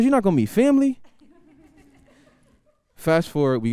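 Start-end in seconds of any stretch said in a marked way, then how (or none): 0.0-1.0 much higher indignant mom; shocked mom. Retold or imitated. Mom outraged her son might skip family, high squeal. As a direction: squeal it, offended. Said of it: "She goes".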